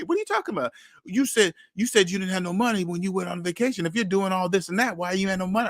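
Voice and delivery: high, incredulous comeback; indignant disbelief. Retold or imitated. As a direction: challenge him like he's talking nonsense. Retorting to friend's accusation.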